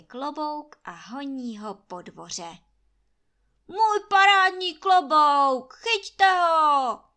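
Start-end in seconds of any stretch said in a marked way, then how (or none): 3.7-7.0 high, loud, frantic holler; bellowing. A narrator's reading. Landlord bellowing at servants to catch his hat, loud and high. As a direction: yell after the flying hat in a panic. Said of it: "huláká Trautenberg".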